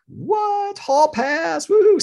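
giddy excitement. Retold or imitated. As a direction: whoop it up like a freed kid. Husband lets him go to Paris.

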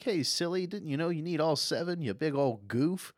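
high, playful teasing voice; OG Goku. Retold or imitated. Grandpa teasing his little grandson, playful. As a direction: tease a child affectionately in a put-on high voice.

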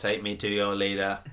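lightly voiced robot line; understated robot impression; robot-style demo. Shown as a demonstration. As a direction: deliver it evenly, a hint of robot. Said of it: "You have to say in the product".

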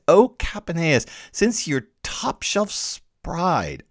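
slow, loud, forceful scolding; forceful rebuke. Retold or imitated. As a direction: dress him down with force, dwelling on each word. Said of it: "spoke so forcefully that I never heard him talk so loudly".

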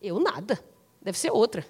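understated playing dumb; evasive denial. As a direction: shrug off the call, quietly. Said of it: "aí você vai dizer".

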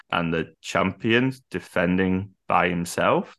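slow, drawn-out announcer's question; imitated ring announcer. Podcaster imitates announcer introducing a lone champion, slowly. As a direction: stretch it out like a puzzled ring announcer. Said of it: "that's how she says it".

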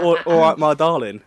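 playful Cockney imitation; imitated Cockney. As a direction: mimic a Cockney greeting. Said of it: "I like the little".

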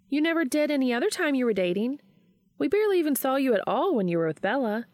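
Charlie, indignant friend. A narrator's reading. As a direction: call him out on it. Charlie complaining, voiced higher.

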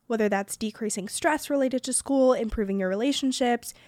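smooth, even sponsor read; podcast ad read. Acted. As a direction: read out the sponsor message clearly and conversationally. Reads a sponsor ad.

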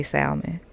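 salmon with an audible L, SAL-mun; L pronounced in salmon. Real, not acted. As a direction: sound the L in "salmon". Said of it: "it's a fucking L in it".

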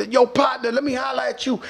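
imitating guys hollering partner; calling out. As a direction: call after him across the crowd. Dudes calling out in stadium.

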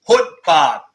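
Hutbart, loud and falling. Shown as a demonstration. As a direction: repeat Hutbart with a harsh edge. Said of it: "I've written it how you would say it".

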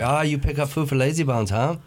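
put-on teasing restaurant lady in light Chinese accent; a touch of Chinese-accent caricature; imitated Chinese accent. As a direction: needle the customer, mock Chinese accent. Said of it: "She's always like".

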